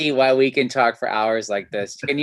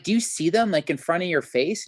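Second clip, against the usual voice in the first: amazed question; 6 semitones higher than usual. Retold or imitated. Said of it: "And he, I, like".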